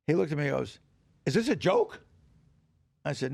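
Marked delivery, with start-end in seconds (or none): 1.3-2.0 high, loud disbelieving challenge; indignant professor. Retold or imitated. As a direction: imitate an outraged teacher confronting a student. Professor confronts the bad student.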